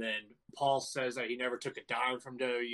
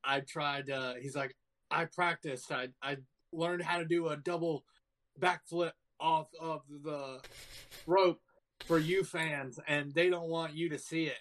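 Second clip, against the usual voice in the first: mock drunk rant; 3 semitones higher than usual. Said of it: "He's, like, so fucking drunk".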